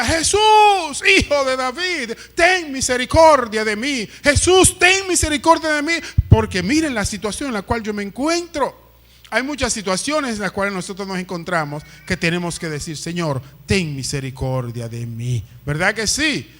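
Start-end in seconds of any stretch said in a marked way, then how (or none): 0.0-8.7 high, loud desperate cry for mercy; shouting like mad. Acted. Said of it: "comenzó a vocear como un loco". 13.0-15.4 low-pitched, humble prayer; humble plea. Shown as a demonstration. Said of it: "lo decimos con humildad".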